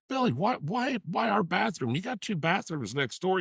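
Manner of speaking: high-pitched, exasperated confrontation; exasperated questioning. Retold or imitated. Confronting Billy over using our bathroom, exasperated.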